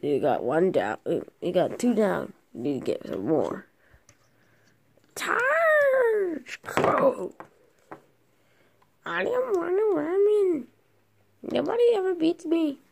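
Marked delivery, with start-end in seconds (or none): 5.2-7.3 high yelled charge; battle cry. Pretend. Kid leading toys into battle, yelling. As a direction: call the troops to charge.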